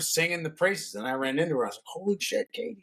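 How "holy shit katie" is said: excited greeting. Retold or imitated. Bumping into Katie, delighted.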